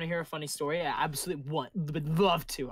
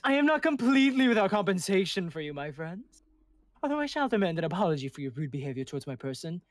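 lofty, indignant demand; pompous angel; 2 semitones higher, 6 dB louder than usual. Acted. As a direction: play the offended noble. Angel NPC demands apology.

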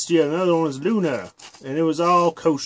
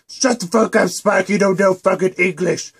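angry yell; 3 semitones higher than usual. Acted. Twilight silencing Spike's correction, irritated yell. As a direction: cut him off, irritated.

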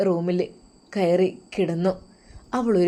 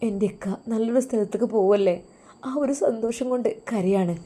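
wife telling her husband she cries from happiness, voice breaking; wife on the verge of tears; 3 semitones higher than usual. Acted. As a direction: force the happy words through rising sobs. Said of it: "അവൾ പൊട്ടിക്കരഞ്ഞു".

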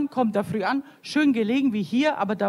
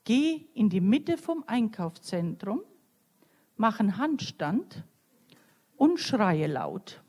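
deliberate commands with pauses between, lightly voiced; inner voice; 2 semitones lower, slower than usual. Inner voice giving the woman instructions in the supermarket, slow and measured. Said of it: "hört sie plötzlich innerlich die Stimme".

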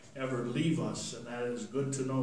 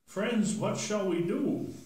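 slow, higher pleading question; worried crowd; 7 semitones higher than usual. Acted. Crowd begging Peter for help, slow and high.

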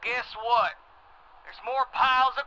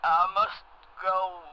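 entranced; 6 semitones lower, much slower than usual. Acted. Caller drawn into tunnel, entranced.

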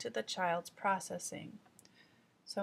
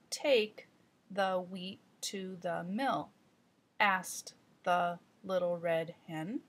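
slow storybook reading with a repeated phrase; young reader working through a storybook page; slow child read-aloud; slower than usual. Shown as a demonstration. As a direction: read it slowly like a beginning reader. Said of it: "Let's do some more repetition on section nine A".

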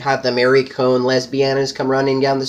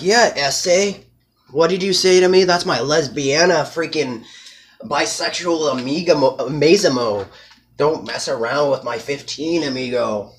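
mock tough threat; 3 semitones higher than usual. Narrator warns the rival off his girl, mock menacing. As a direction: lean in like a street tough warning.

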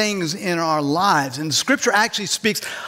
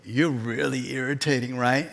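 deadpan punchline; 6 semitones lower, 6 dB quieter than usual. Acted. Punchline turned on listener.

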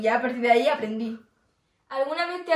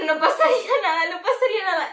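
sleepy inner voice; 6 semitones higher, 4 dB louder than usual. Retold or imitated. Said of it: "y dije".

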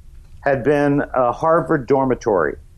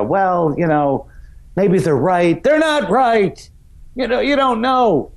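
wishy-washy self; 7 semitones higher than usual. Retold or imitated. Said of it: "where I would go".

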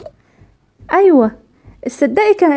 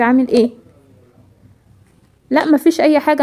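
calm mother; 2 semitones lower than usual. Acted. Mother calls husband Mohamed at work, calm and tender. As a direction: keep it easy and reassuring on the phone.

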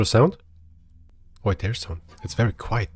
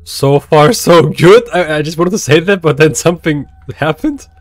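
excited; 6 dB louder than usual. Real, not acted. Excited commentary after surviving a scare.

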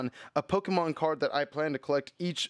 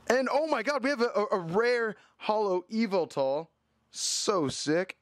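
excited; 8 semitones higher than usual. Real, not acted. Pulls rare holo Yveltal.

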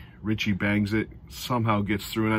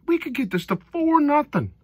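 pitched way high, getting louder; high, eager fan voice, louder on the second "Four nothing"; giddy fan hope; 5 dB louder than usual. Retold or imitated. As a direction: dream out loud of a rout. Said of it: "You're thinking".

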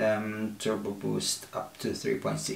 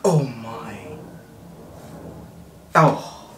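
amazed. Real, not acted. Stunned reaction to laptop.

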